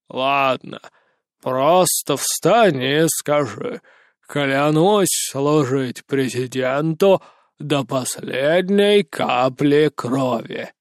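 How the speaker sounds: a hint of a slow, lordly head of state; lightly voiced president. A narrator's reading.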